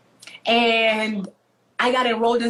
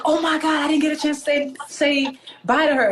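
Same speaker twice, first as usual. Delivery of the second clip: higher-pitched, acted alarm; retold dismay; 5 semitones higher than usual. Child realises she missed saying bye to her friend, retold dismay. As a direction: relive the sudden realisation.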